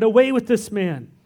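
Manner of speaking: mild mock crowd shout. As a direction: call it out like an angry mob, slow on the second line. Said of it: "But the whole crowd shouted".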